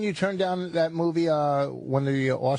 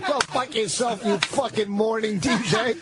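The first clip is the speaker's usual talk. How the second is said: like calling through a bullhorn; through a megaphone; 5 semitones higher than usual. Pretend. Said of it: "What do you do with the bullhorn?".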